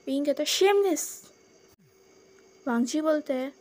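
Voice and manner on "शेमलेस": a sharp, higher, louder cry of shamelessness; indignant retort.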